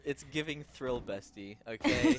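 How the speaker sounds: sassy 'bestie' slang; playful zoomer tease; ironic zoomer. Pretend. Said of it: "listener laughs".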